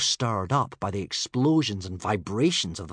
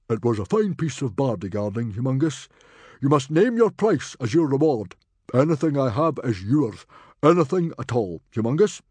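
loud, much higher booming chieftain; roaring proud chief, much louder; hearty Viking chief; 4 semitones higher, 7 dB louder than usual. A narrator's reading. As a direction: boast like a proud rowdy chief. Stoic's voice again.

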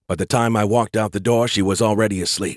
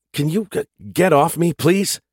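high strained plea; 8 semitones higher than usual. Acted. Woken with hologram on chest.

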